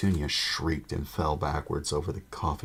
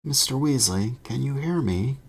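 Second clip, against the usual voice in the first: calling through boards; 9 semitones higher, 5 dB louder than usual. A narrator's reading. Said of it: "called through the boards".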